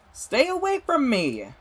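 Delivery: very high, loud, slow angry yell; furious shout. Acted. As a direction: spit every word at him. Lila furious, fleeing.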